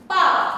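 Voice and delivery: Ba started high and dropped sharply; fourth tone. Shown as a demonstration. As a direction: ring out Ba then let it fall hard. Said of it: "nó phải có cái độ vang, một độ rơi xuống nhá".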